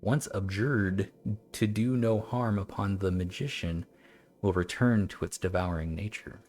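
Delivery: measured formal recital; old text reading. Acted. Streamer picks the devil text back up, measured recital. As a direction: finish the old warning evenly.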